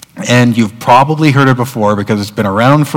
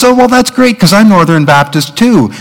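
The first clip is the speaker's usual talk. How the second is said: higher-pitched mock enthusiasm; acted delight; 6 semitones higher than usual. Man greeting a fellow Baptist on a bridge, acted delight. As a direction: play pleased discovery, lightly hammed up.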